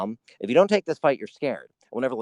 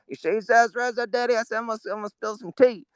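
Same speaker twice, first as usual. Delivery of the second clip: much higher, put-on comic voice for a president; George W. Bush impression; 9 semitones higher, 3 dB louder than usual. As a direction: ham it up as a goofy president, fast at first. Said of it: "George W. Bush kind of thing".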